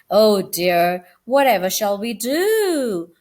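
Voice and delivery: anxious cry. Acted. Aunt Dorothy fretting to relatives, anxious. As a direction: wring your hands over it. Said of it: "cried Aunt Dorothy".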